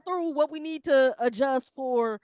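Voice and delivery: fed up with the interviewer's questions; annoyed player. Pretend.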